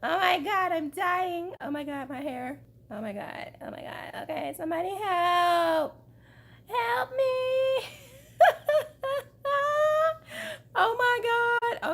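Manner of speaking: laughing and crying for help; hysterical laugh. Real, not acted. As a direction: laugh hard while begging for help. Hat Velcro stuck in curls.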